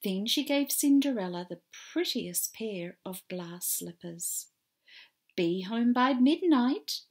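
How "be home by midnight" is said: loud, urgent whispered warning. Acted. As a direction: warn her firmly. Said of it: "warned her godmother".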